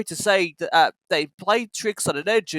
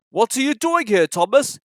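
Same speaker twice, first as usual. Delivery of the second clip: stern director; 5 semitones higher, 3 dB louder than usual. Acted. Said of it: "he asked sternly".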